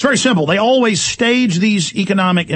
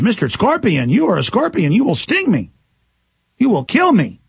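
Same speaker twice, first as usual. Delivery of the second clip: higher-pitched frog, wary and emphatic; protesting frog; 4 semitones higher than usual. Acted. Wary frog refusing the scorpion a ride, protesting.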